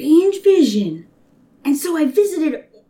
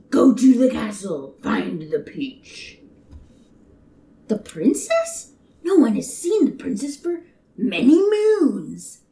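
put-on old man voice; 6 semitones lower than usual.

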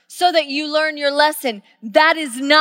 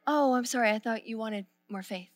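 dry reply; 8 dB quieter than usual. Pretend. God's dry reply voiced.

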